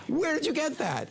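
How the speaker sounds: high, slow astonished question; incredulous. Acted. Student demanding the rabbi's source, incredulous. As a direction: press the question in high disbelief.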